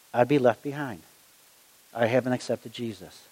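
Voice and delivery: low, hushed retold admission; subdued confession. Friend confesses he hasn't accepted Jesus, quietly subdued.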